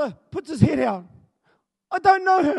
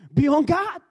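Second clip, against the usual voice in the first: preaching; 5 dB louder than usual. Acted. Quoting scripture with force.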